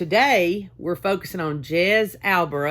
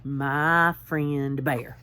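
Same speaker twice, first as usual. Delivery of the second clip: slow title read; 4 semitones lower, much slower than usual. Shown as a demonstration. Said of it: "reads title slowest".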